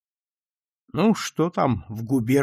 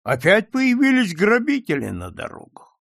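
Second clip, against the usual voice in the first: usual speaking voice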